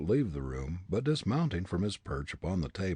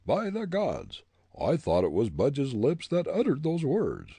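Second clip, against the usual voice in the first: higher, firm interrogating captain; stern captain; 7 semitones higher, 5 dB louder than usual. A narrator's reading. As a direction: accuse like a gang leader. Captain voiced.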